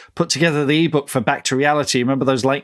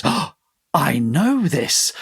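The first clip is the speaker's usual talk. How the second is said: put-on slow, awed little-girl recognition; drawn-out wonder, imitating a child who spots something familiar; lightly voiced awestruck girl; Lex from Jurassic Park; 3 semitones higher, much slower than usual. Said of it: "the little girl Lex in Jurassic Park ... she goes".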